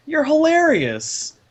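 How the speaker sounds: amused, drawn-out praise. Acted. Lucas laughing at Turi.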